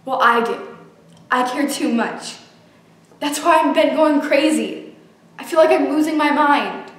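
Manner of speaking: desperate anguish. Acted. Confession of grief, louder.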